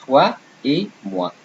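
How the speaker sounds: "toi et moi" as twa e mwa; French pronunciation. Shown as a demonstration. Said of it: "Example, if I say".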